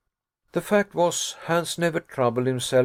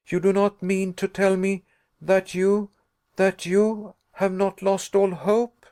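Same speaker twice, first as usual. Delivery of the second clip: exasperated; 7 semitones higher than usual. A narrator's reading. Nephew challenges his uncle's hope, exasperated and higher. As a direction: press him hard, you can't believe it. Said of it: "exasperated to a degree".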